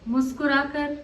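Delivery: measured poem reading, phrase by phrase with pauses; poetry recitation. Acted. Poet opens the programme with her verse on women walking, recited.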